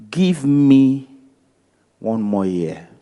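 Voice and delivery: firm plea, then the voice drops away on the last words; farmer's plea. Retold or imitated. Farmer begging the owner to spare the fig tree, dropping off at the end. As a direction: press the farmer's case, then let it sink.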